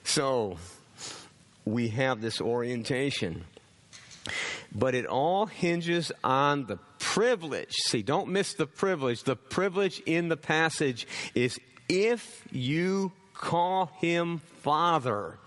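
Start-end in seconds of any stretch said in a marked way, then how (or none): 4.7-15.4 high, emphatic pulpit delivery; forceful preaching. Real, not acted. Preacher pressing the congregation on the privilege of calling God Father, forceful. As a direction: drive each phrase home to the congregation.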